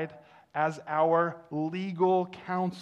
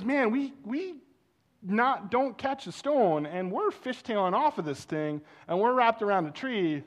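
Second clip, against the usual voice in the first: loud, higher mock panic; retold panic; 6 semitones higher, 4 dB louder than usual. Pastor reliving the car ride, mock panic. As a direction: rattle off the worst case.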